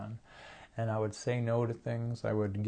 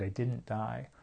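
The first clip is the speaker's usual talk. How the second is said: softer, ending in a rising lift; quiet wondering echo. Retold or imitated. Echoing her own thought in quiet wonder. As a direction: repeat it as a small marvel. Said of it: "That's what went through my mind".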